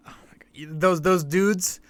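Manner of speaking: breathy hushed aside, slowed; shocked whisper. Real, not acted. Whispering in disbelief about the pregame clowns. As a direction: whisper it as if scandalised.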